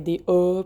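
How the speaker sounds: A rounded toward an O, Quebec style; "A" backed and rounded like Quebec French; Québécois vowel. Shown as a demonstration. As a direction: say "A" as a broad Québécois "aw". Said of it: "avec mon accent que je suis québécoise".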